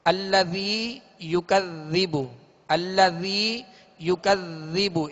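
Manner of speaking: अल्लज़ी युकज़्ज़िबु without any hissing sound; soft zaal, no whistle. Shown as a demonstration. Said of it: "सीटी की आवाज़ पैदा ना हो".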